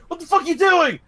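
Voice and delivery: high, loud shout daring him to fight; mock angry dad. Angry dad challenging the biting man, loud shout. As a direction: yell at him to come out and fight.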